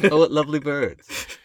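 high, loud put-on nature narrator; gushing narrator. Co-host narrating forest footage, high gushing voice. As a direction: exclaim it high with mock delight. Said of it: "And be like".

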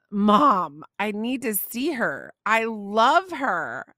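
"Mom" punched, then slow earnest plea; persistent pleading. Retold or imitated. Daughter persisting with her mom, earnest pleading. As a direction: imitate a child insisting, words drawn out. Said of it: "continues to persist, telling me".

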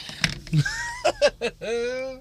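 high, soft giggle; laugh. Real, not acted. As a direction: let out a long high giggle. Laughing after the sign-off.

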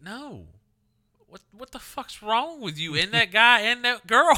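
high, loud scolding shout; exasperated yell. Retold or imitated. Girlfriend scolds him after the spoon dip joke, loud exasperation.

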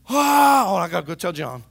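hammed-up church gossip; mock gossip. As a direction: play a nosy gossip gasping at scandal. Gossip running to tell.

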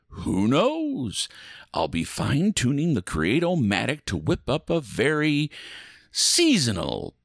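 lightly theatrical ride host; spooky ride narrator. Acted. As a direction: welcome riders with playful menace.

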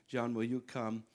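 ordinary talk, nothing marked

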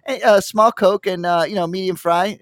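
lightly voiced giddy brother at the drive-thru; giddy brother ordering. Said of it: "he's, like, laughing and shit".

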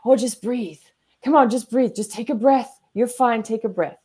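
lightly imitating a soothing friend; mock soothing. Friend urging a panicking person to breathe, mild mock coaxing. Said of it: "first thing we all say to them is".

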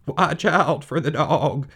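wavering high bleat; quavering drawn-out sheep voice; sheep crying out. Acted. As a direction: bleat the warning out slowly. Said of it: "cried the sheep".

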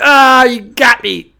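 high, drawn-out "ah, you got me"; mock teasing reaction. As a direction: play along with a buddy's joke, exaggerated. Acting comrades falling for a joke.

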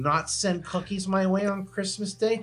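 mock tirade at neighbor. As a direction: tell the nosy neighbor off, voice climbing high. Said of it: "I just like".

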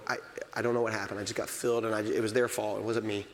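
a believer excusing his sin; mumbled excuse. Retold or imitated. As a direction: rush through a weak excuse. Mock excuse of a sinner.

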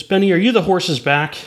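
lightly put-on circus host voice; clown host. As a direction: ask it like a clown working the crowd. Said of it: "the clown asks his name".

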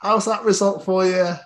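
high-pitched teasing jab; retold needling of a sore loser; gloating taunt. Taunting the beaten England fan.

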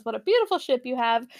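hammy fake Irish accent, quick; bad Irish accent. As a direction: put on a terrible Irish accent. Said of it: "in a really bad Irish accent".

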